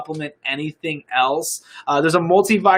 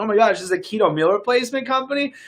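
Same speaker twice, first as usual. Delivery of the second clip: excited quote; 6 semitones higher, faster than usual. Retold or imitated. Retold fans excited at discovery.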